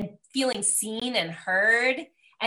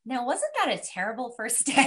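teacher turning nice. Retold or imitated. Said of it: "she got all nice".

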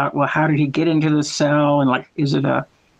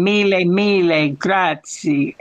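slow, stretched Italian accent; drawn-out Italian phrase for a learner; Italian accent demonstration; 3 semitones higher, slower than usual. Shown as a demonstration. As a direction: teach the Italian thanks slowly. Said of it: "can you do that accent again".

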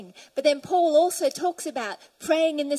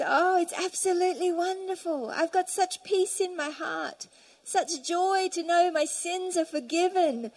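retold joy; 3 semitones higher than usual. A prisoner telling his visitor of peace and forgiveness, mildly joyful. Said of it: "such pure joy".

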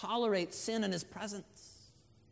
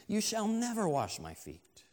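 higher, firm refusal; emphatic refusal; 4 semitones higher than usual. Acted. Peter refuses to let Jesus wash his feet, emphatic. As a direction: refuse firmly, pitch raised on the opening. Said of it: "he's even more emphatic".

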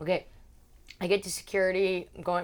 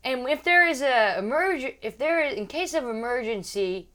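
imitated flight attendant announcement; 6 semitones higher, 4 dB louder than usual. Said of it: "Then she goes".

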